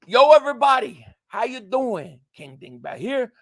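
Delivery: catchphrase said word by word, loud start falling away; measured, articulated video intro greeting; spelled-out video intro. Shown as a demonstration. Streamer showing viewers the intro words, spelled-out greeting. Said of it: "What do you say in the video intros?".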